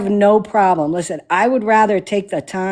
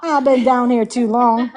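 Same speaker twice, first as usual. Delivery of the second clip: laughing drawl; 6 semitones higher than usual. Real, not acted. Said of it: "Why am I talking like this".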